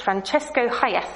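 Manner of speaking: hammed-up Italian pronunciation of Francesco Hayez; Italian accent. Shown as a demonstration. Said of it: "that's my best Italian accent".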